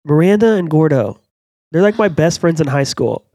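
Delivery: mildly put-on sitcom heroine; teen sitcom character. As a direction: gush about school friends as a TV teen. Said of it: "Just think of those names".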